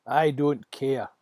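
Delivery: slow, firm angry retort. Acted. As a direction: Moses cutting off the shepherd. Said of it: "said Moses angrily".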